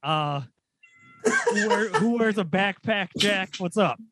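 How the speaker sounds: winded after sprinting here; panting between words; out of breath. Real, not acted. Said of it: "Jack, you sound, sound like you're running".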